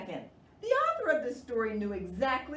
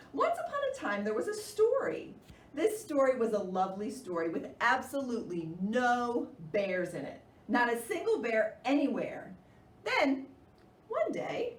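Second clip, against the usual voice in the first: story narration. A narrator's reading. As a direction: read it like a storybook for little ones.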